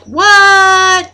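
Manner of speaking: high, loud stunned what; shocked what. Retold or imitated. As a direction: gasp it out in disbelief. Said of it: "they were like".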